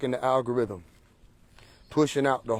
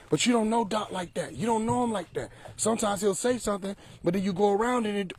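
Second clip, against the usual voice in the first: mock excuse-making; 6 semitones higher, 5 dB quieter than usual. Imitates followers arguing back, high and softer.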